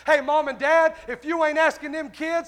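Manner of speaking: forceful, driving sermon delivery; fervent preaching. Real, not acted. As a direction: press the congregation with punched questions. Preaches to congregation.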